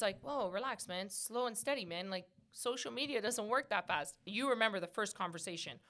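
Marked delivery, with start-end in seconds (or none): 0.2-4.1 softer, easygoing reassurance; retold calming down. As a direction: talk an eager friend down gently. Jamie calming him down, retold.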